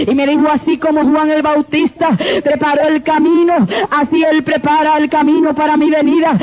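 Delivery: fervent preaching. Real, not acted. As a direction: proclaim it to the congregation like a revival preacher.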